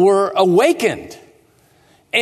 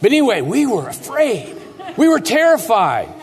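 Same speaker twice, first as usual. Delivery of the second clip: chuckling through the words; amused, laughing it off; 4 semitones higher than usual. Real, not acted. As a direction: still laughing from the joke. Laughs after joke about dad.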